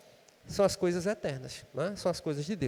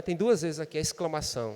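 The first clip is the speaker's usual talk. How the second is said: normal talking voice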